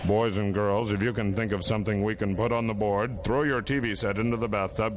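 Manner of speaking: hammed-up TV host talking down to the kids; a kids' show host hamming it up to the boys and girls at home; mock kids' show host. Kids' show host addressing viewers.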